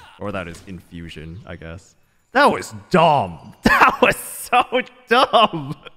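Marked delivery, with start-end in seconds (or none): 2.3-5.8 drawn-out, shrill, very loud, high, angry yell. Reacting to a failed attempt in the game: annoyed and angry. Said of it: "I'm so annoyed! I'm so angry!".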